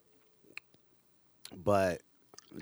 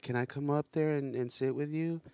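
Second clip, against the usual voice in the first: put-on high, sweet little kid voice; little girl voice; 6 semitones higher than usual. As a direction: ask like a small child. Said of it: "she'd be like".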